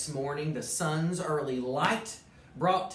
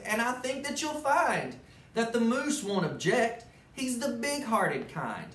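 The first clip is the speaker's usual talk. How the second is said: cheerful bug; 6 semitones higher than usual. Acted. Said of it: "laughed the bug".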